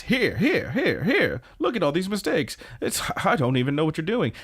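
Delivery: high, singsong scolding; confronting. Retold or imitated. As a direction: jab out each fault, pitch swooping. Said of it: "confronts Retsuko about her work".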